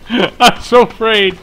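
sarcastic. Pretend. Mock fear, laughing.

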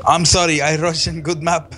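put-on broken-English Russian accent; bad Russian accent. Player excusing themselves as a Russian, bad Russian accent. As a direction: apologize in a hammy, badly faked Russian accent. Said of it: "that's the worst Russian accent".

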